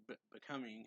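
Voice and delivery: stumbling start on Be-, becoming; hesitant broken Be-, becoming; stammered becoming. Retold or imitated. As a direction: stutter the Be- before becoming. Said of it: "or like".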